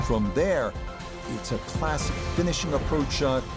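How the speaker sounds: calm TV golf commentary; golf commentator. Acted. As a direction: call the hole like a broadcaster.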